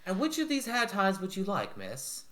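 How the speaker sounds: high, bright-pitched servant voice; a light, chirpy lady's maid. Acted. Maid asking her mistress about hair ties, high and polite.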